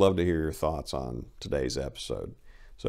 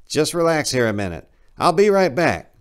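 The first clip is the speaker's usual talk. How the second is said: higher, louder false calm; interrogator soothing; 10 semitones higher, 9 dB louder than usual. Acted. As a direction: reassure the prisoner before leaving. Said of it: "the interrogator said".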